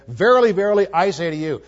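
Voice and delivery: a hint of Jesus preaching with authority; authoritative. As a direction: declare it with full authority. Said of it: "He spoke with authority".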